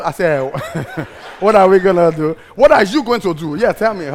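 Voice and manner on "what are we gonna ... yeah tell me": indignant retort. Retold or imitated.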